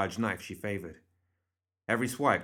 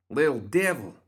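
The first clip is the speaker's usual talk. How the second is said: higher, louder exclamation; hissed alarm; 6 semitones higher, 6 dB louder than usual. A narrator's reading. Crockett spotting a small shadowy figure, hissing. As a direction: spit out the name at the creature. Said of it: "Crockett hissed".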